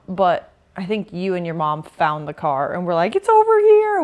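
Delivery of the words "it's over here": high, loud holler across a lot; retold excited call-out. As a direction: shout to the others that you found it. Retold calling out across parking lot.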